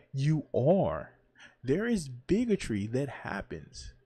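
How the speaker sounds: loud, emphatic know-it-all; hammed-up condescending explainer, hitting it hard; mock mansplaining. Host answers people upset at being called mansplainers, mock mansplaining. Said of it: "in my best mansplaining voice".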